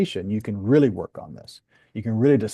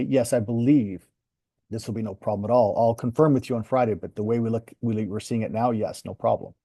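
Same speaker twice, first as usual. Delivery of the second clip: confident reassurance. Shown as a demonstration. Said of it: "the way I've said that".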